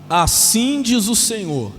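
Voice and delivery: 3 proclaim it like a preacher from the pulpit; 1 solemn proclamation. Real, not acted. 4 pastor to congregation, slow loud proclamation.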